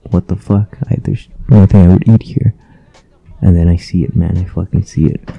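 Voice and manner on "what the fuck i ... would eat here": dismayed. Retold or imitated. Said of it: "I'm like".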